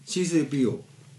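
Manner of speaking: low, far-off robot butler voice; C-3PO voice. Acted. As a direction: stiff droid butler. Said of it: "言ってみてください".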